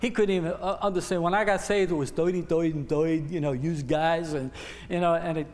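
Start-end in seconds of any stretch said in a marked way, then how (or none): 2.1-3.3 New York accent. Real, not acted. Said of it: "I guess I'm still sound that way".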